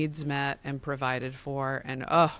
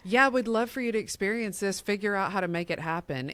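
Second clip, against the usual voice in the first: breezy, fast, higher mock offer; mock casual offer; 5 semitones higher, faster than usual. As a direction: toss it off like a half-hearted promise. Mocking a hands-off charity offer.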